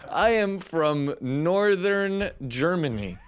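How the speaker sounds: a slow, exaggerated fake German accent; deliberately wrong German accent, drawn out; mock German accent. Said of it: "With a wrong accent".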